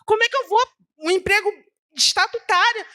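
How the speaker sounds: high-pitched mock-distressed protest; retold tearful plea. Woman protesting to God about losing her only job, retold tearful plea. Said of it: "eu comecei a chorar".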